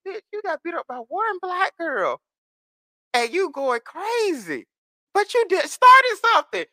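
high-pitched mock telling-off; indignant scolding. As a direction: scold them in a high, incredulous voice. Acted scolding of a complainer.

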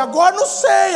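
high, loud helpless reply; acted panic. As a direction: throw up the answer in a fluster.

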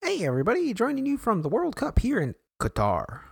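high, sing-out broadcaster greeting; local news broadcaster. Pretend. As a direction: put on a high local TV newscaster voice. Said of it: "local news broadcaster voice".

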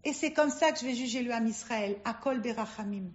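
lightly voiced judge, hushed; merciful judge. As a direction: bring the ruling down to a quiet close. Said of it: "le juge, il dit".

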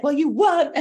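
high, loud, cutting comeback; snippy retort. Retold or imitated. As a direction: snap back at her. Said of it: "She was so dramatic".

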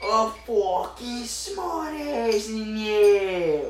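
very slow, stretched, sneering drawl; mock taunt. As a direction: drag each word out to mock the smart guy.

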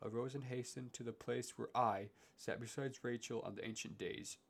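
put-on measured, solemn reading of old verse; poem reading. Podcast host reading Dante aloud, solemn poem reading. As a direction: read it like a classic epic poem.

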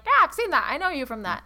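bright, eager recognition; excited fan. Retold or imitated. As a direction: gush like a thrilled fan. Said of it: "I meet, like".

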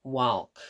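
"Walk" with the L sounded; pronounced L. Retold or imitated. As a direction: demonstrate "Walk" with an audible L before K. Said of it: "with the L pronounced".

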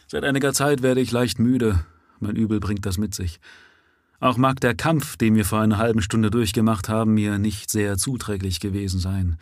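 a hint of a calm, doomed man speaking plainly; steady, unafraid of death, rising at the end; lightly voiced prisoner, resigned. Dying prisoner explaining to the police he is no common murderer.

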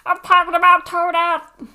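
loud, high exasperated protest; exasperated shouting. Real, not acted. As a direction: shout it, fed up. Insists over co-host's joke.

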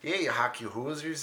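mock-Canadian hoser jibe; Canadian accent. Shown as a demonstration. Comic showing co-host a light Canadian hoser accent. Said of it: "do Canadian accent".

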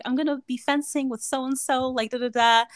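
high-pitched retold calling out; mock yell. Girl yelling fencing news out the window, mock yell. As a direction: imitate an excited shout, kept at talking volume. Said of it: "she was yelling out the window".

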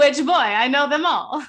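lightly hammed-up interrogating grandmother; mock demanding grandmother.

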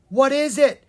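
loud, high, alarmed question; frightened question. A narrator's reading. Prince with eyes shut asks about the creature, alarmed. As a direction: ask with your heart pounding. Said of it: "his heart pounding".

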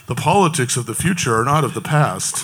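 low, mocking fake deep voice; dopey deep voice. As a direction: put on a phony deep politician voice. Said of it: "with this fake deep voice just saying".

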